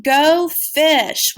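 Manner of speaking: loud, high, excited "Go fish". Shown as a demonstration. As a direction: shout it out like the best part of the game. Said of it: "say it with excitement".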